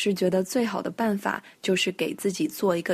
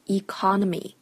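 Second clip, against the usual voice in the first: "Economy" stressed on the co; stress on second syllable. Shown as a demonstration. Teacher showing where the stress falls, "Economy" stressed on co. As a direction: hit the co in "Economy". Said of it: "它的重音在哪儿呢".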